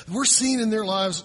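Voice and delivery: ordinary talk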